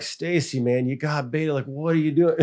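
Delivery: wife got baited, husband exasperated and amused. Retold or imitated. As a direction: scold her with a laugh. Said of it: "I'm like".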